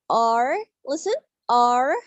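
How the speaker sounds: "R" drawn out with tongue curled back; teacher demonstrating a curled-tongue R; R pronunciation. Shown as a demonstration. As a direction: model "R" slowly, tongue toward the palate. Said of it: "listen to me carefully".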